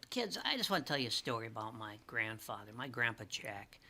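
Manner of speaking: put-on quiet, earnest story opener to the kids; storytelling to kids. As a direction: lean in and start a heartfelt story. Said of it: "And I'm said".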